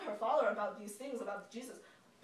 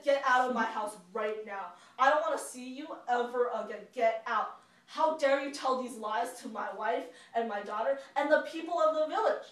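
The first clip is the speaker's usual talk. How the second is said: angry; 5 dB louder than usual. Acted. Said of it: "he was so mad".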